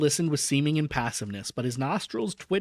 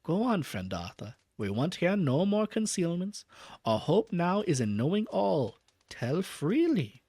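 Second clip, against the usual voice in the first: grave professor; 3 semitones higher than usual. Acted. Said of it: "Van Helsing said gravely".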